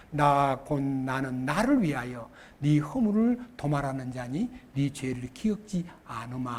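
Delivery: soft awed reading of the verse; hushed tearful recitation. Acted. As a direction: whisper the promise as if moved to tears.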